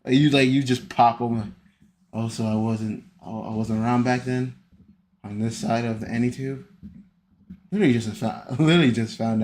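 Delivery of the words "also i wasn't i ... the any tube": imitating his calm voice. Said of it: "I'm reading in your voice".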